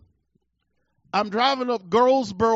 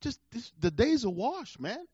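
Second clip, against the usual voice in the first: defeated inner voice; 6 dB quieter than usual. Retold or imitated. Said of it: "So I thought to myself".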